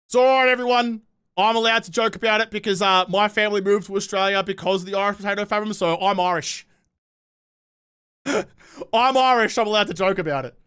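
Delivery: light send-up of an American insisting he's Irish; mock American claiming Irish. Streamer mocking Americans who claim Irish roots, lightly hammed-up. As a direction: play a smug American with one Irish ancestor, loosely. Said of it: "I'm gonna do the American thing".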